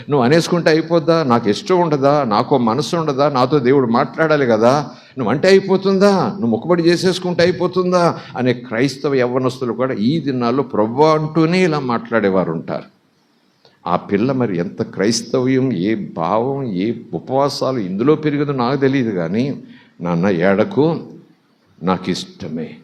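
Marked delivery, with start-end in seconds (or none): 0.1-8.2 acted youngster talking back; indignant protest. Youths protest parents' vow. 20.0-22.7 low, slow acted daughter's reassurance; lightly acted tender acceptance; tender consolation. Daughter consoles her father.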